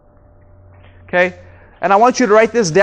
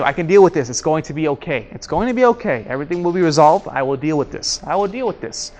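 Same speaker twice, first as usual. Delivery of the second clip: lower, softer calming self-talk; 5 semitones lower, 4 dB quieter than usual. Acted. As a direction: reassure yourself under pressure. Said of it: "Just said it to myself in my mind".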